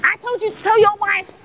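loud, high, slow American voice; put-on American accent. The other woman scolding a married lover, American accent. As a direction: play it in a big American accent. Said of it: "I'm doing an American accent".

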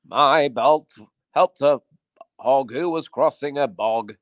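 slow, drawn-out Yorkshire storybook recital; Yorkshire accent. Acted. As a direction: recite it in broad, unhurried Yorkshire, stretching the last word. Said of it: "Was he from Yorkshire?".

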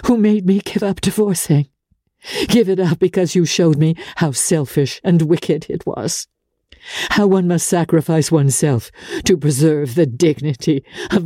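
high, lightly voiced wounded plea; hurt reproach. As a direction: plead her case on the verge of tears. Hurt outburst to Archer.

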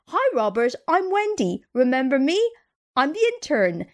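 lightly imitated squeaky intern, lilting up high on the name. Intern greeting the executive she yanked, mildly squeaky voice. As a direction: put on a little squeaky hello. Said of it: "says in this squeaky voice".

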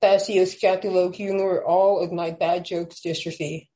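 measured spoken word poem; poem reading. Acted. Reads her poem aloud.

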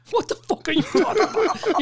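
high-pitched bewilderment; baffled protest, pitched well up; retold incredulous question. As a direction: act out being totally lost. He reacts to chief coming.

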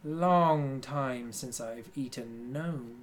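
menacing character voice. Acted. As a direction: let the hunger show, slowly.

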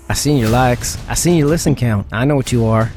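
a mock gunslinger sizing up the listener in a Western accent; terrible Western accent. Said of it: "holstering my terrible accent".

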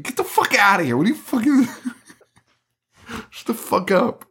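high-pitched, laughing disbelief; laughing mock outrage. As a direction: yell at the pig while cracking up. Mock outrage at talking pig.

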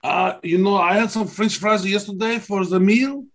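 mock French accent. Co-host joins the French jokes.

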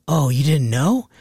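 slow, unbothered question; casual cousin. Retold or imitated. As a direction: imitate a relative who thinks it's old news. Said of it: "so casual about it".

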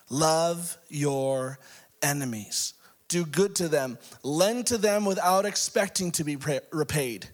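measured, emphatic Bible reading; scripture reading. Acted. Preacher reading Luke six to congregation, emphatic delivery. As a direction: read it out with rising emphasis and pauses.

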